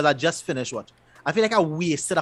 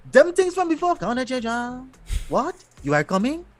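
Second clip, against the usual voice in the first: lightly hammed-up, higher-pitched dub actor; mock dub voice; 9 semitones higher than usual. Host mimicking the dubbed voices he hated, lightly mocking. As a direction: imitate a stilted dub performance. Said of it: "No, I hated that".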